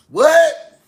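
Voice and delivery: sudden high "What?" like he just caught something; playful fake astonishment; mock surprise. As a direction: act startled by the discovery. Mock surprise at his own claim.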